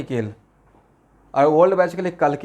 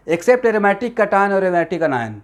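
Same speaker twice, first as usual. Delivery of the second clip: drawn-out dictation pace for memorizing; slow dictation; 3 semitones higher, much slower than usual. Shown as a demonstration. Teacher dictating a rule for rote learning, very slowly. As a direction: spell it out word by word to be learned by heart. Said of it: "एकदम तोता की तरह रट जाना है".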